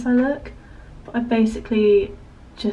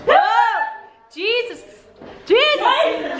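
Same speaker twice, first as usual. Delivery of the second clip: surprised; 12 semitones higher, much slower than usual. Real, not acted. Startled exclamations, high pitch.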